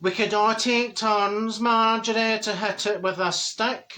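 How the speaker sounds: slow, stretched friend impression; slow-talking Dorothy. Friend proposes hitting the paper donkey, slow imitated voice. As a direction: imitate her suggestion in a drawl. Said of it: "And she says".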